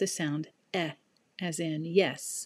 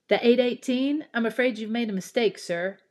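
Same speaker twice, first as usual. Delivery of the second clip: surprised conductor; 6 semitones higher, 5 dB louder, faster than usual. Acted.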